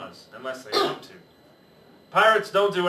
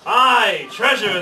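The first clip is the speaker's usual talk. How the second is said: loud, higher crew shout; pirate crew shout; 5 semitones higher, 9 dB louder, much slower than usual. Acted. Pirate crew answers the captain, loud shout. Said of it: "the others shouted".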